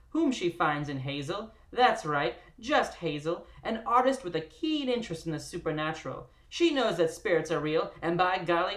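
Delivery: booming nineteen twenties radio narrator; old radio announcer. Pretend. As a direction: read it like an old-time radio host. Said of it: "in an annoying, old-timey radio voice".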